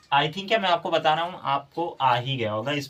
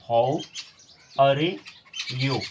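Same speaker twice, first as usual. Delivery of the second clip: spelled-out reading; 3 dB louder, much slower than usual. Shown as a demonstration. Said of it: "अगर इसे आप ऐसे पढ़ेंगे".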